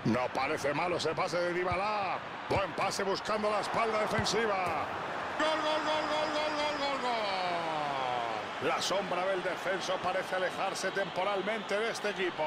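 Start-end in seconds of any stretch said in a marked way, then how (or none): 5.4-8.7 high rapid goal shouting; breakneck goal commentary. Acted. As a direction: rattle off goal goal goal.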